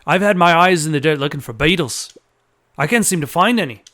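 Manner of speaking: lightly voiced Australian character; Australian accent. Joey telling Luca about his beetle hunt, Australian accent. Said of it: "gave him an Australian accent".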